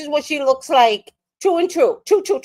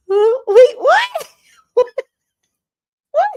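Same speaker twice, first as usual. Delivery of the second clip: high, loud sudden shock; real shocked what; 6 dB louder, much slower than usual. Real, not acted. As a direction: jolt into disbelief. Shocked by a comment.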